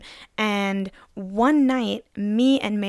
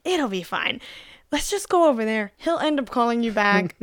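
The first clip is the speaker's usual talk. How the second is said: breezy, lightly raised tipsy reassurance; drunk minds; 2 semitones higher than usual. Retold or imitated. Drunk friends decide to go over anyway, breezy. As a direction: imitate tipsy friends talking themselves into it. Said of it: "in me and Mary's drunk minds".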